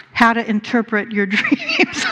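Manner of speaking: chuckling as the joke lands; laughing through the punchline. Real, not acted. Minister telling the congregation a joke, laughing. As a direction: laugh while saying the book title.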